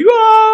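high mock crying wail; retold wail. Man retelling fever with chikungunya, mock crying wail. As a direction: wail like a sick crybaby. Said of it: "estaba llorando, y yo así".

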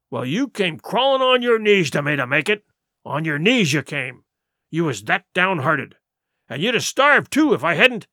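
pirate ringleader justifying himself, punching key words; lightly voiced defiant pirate leader. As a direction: argue it like a pirate captain, with mild swagger. Silver's speech in the story.

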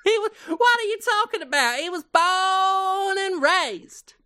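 high, indignant Southern twang; Southern accent. Acted. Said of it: "No southern accent for Bacon Gummidge".

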